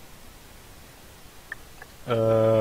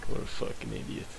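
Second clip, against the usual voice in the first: whispered insult under breath; muttered; 13 semitones lower, 8 dB quieter than usual. Real, not acted. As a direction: say it only to yourself.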